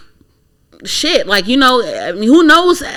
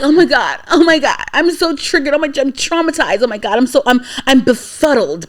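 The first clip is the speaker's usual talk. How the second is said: mock distress; 4 semitones higher than usual. Mimicking Schumer's claimed trauma.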